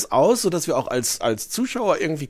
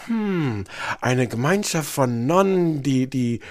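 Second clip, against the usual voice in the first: voice in her head; slower than usual. Retold or imitated. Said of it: "da sagt dann die Stimme im Kopf von Ellie noch".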